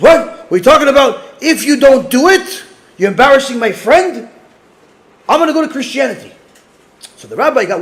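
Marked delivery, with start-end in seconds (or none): 0.0-6.3 indignant protest. Retold or imitated. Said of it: "He goes".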